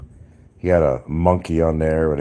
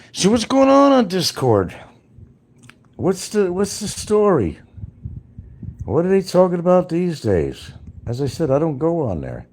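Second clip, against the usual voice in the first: much higher and louder, eager questions; excited high questions; 10 semitones higher, 5 dB louder than usual. Real, not acted. Asking chat about Discord, high and excited. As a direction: pump up the voice, high and loud.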